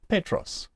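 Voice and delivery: "Petros" with stress on the first syllable; stressed accented syllable. Shown as a demonstration. Teacher showing an acute accent on epsilon, stress demonstration. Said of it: "we stress that syllable".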